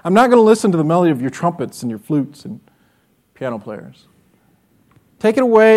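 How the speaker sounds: stern divine rebuke; voicing God. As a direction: speak as God turning them away. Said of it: "God would come and say".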